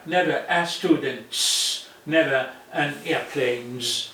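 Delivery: "never" hit firmly and said slowly; teacher stressing "never". Shown as a demonstration. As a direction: lean on "never" to show the rule. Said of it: "but never".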